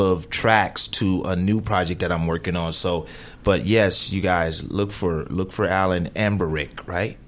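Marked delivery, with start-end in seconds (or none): 6.1-6.9 Amberick said as AM-ber-ick; mispronounced surname. Real, not acted. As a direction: Amberick with an m before the b. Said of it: "you just put different accent".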